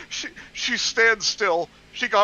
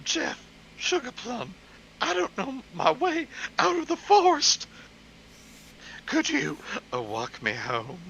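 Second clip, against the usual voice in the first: put-on girly voice; 5 semitones higher than usual. Voicing Hope, girl character.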